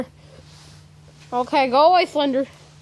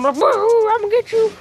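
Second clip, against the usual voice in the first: spooky ghost voice; 8 semitones higher than usual. Retold or imitated. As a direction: play the creepy monster. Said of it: "sitting there going".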